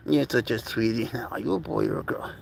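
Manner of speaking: tender cooing. Real, not acted. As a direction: murmur sweetly to a tiny pet. Cooing to a baby animal.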